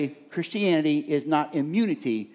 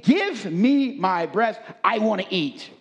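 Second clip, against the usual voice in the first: mock infant demand; 2 semitones higher, slower than usual. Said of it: "That's what it's really saying".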